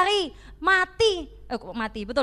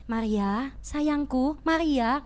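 "Maria, sayangku" lower and softer, sweetly coaxing; soft tender coaxing; 3 semitones lower, much slower than usual. Shown as a demonstration. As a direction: murmur "sayangku" gently like a lover. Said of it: "dia berkata tidak gini".

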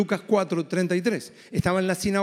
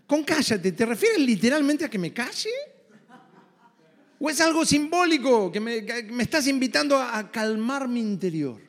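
mock demon questioning; 3 semitones higher than usual. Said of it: "Imaginen al demonio diciendo".

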